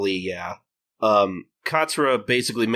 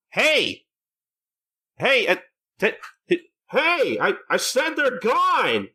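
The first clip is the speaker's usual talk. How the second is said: high, slow, insistent calling out; exasperated Katsura; 12 semitones higher, slower than usual. Retold or imitated. Katsura calling to an empty can, high exasperated voice. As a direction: call out to the can, getting impatient.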